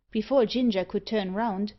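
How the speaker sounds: ordinary delivery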